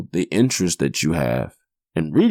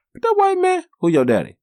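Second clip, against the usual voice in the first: put-on worried kid; 4 dB louder than usual. Kid and dad exchange retold.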